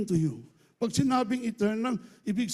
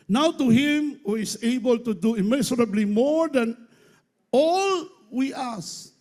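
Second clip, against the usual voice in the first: scripture reading; 2 semitones higher than usual. Acted. Reads the Bible verse.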